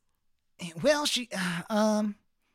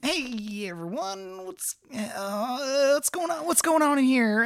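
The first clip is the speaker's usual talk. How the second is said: confused; 5 semitones higher, slower than usual. Acted. Jeffy enters, confused.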